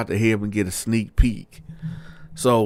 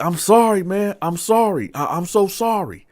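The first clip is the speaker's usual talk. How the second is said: high, loud calling-out apology; yelled apology; 9 semitones higher, 4 dB louder than usual. Retold or imitated. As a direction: imitate him yelling sorry down a hallway. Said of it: "he yell out like".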